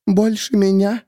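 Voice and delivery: high, broken woman; tearful hush. A narrator's reading. Miriam crying to the narrator, high broken. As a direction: say it through tears. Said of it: "Её голос стал почти неслышимым".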